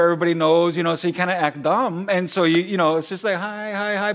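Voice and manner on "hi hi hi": mock polite greeting. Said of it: "I don't show it on the outside".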